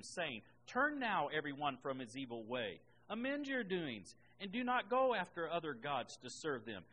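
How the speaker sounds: firm pulpit reading; scripture reading. Acted. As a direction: read the prophet's appeal out to a congregation. Reads scripture aloud to congregation.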